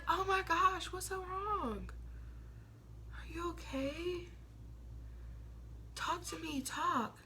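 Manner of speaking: soft, hushed, over-concerned mock friend; mock clingy friend. Mocking what needy friends want from Aquarius, soft hushed fake concern. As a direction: coo it like a smothering friend.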